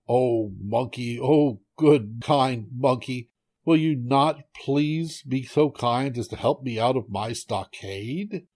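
drawn-out, wheedling entreaty; lightly acted begging; pleading tiger. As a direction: beg with stretched-out words. Trapped tiger begs monkey for help.

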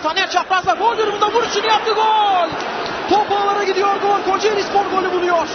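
screaming football commentator. Real, not acted. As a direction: belt out the goal. Goal call by commentator. (heyecanlı gol anonsu)

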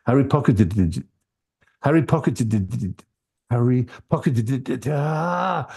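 Harry pocketed it tried over and over, tripping; frustrated retakes of the tongue twister; repeated stumble. Shown as a demonstration. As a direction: keep failing at "pocketed it". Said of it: "as soon as I tried to say".

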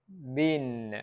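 "Been" with a long, tense ee. Shown as a demonstration. Teacher quizzing learners by ear, long I. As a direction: draw out "Been" with a clear ee vowel. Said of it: "Mình đọc là long I sound".

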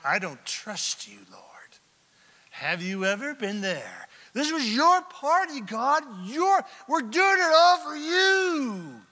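starts in a whisper, then a crying shout; from hushed distrust to an anguished cry at God; angry at God. Retold or imitated. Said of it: "He's mad at God, and he's like".

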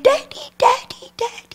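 put-on high, light child voice calling then fading; little girl calling. Little girl running again.

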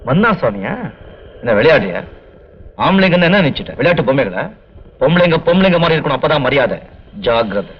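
low, menacing scolding; deep, domineering lecture; stern threat. Acted. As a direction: warn them off with a growl. Man scolds women threateningly.

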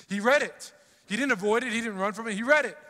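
preacher driving the point home; emphatic repetition. Acted. Preacher stressing Hezekiah's response.

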